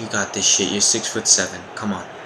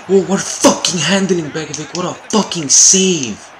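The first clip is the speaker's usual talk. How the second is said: loud, high laughing yell of amazement; real delighted yell; laughing shout; 7 semitones higher, 6 dB louder than usual. Real, not acted. Keeper makes a great save.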